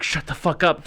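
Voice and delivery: Jack Nicholson angry. Retold or imitated. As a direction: switch instantly from bored to furious. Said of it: "Jack Nicholson angry".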